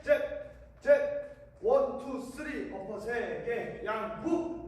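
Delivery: rhythmic workout calls; gym coach. Shown as a demonstration. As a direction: call the combo like a coach. Boxing workout count calls.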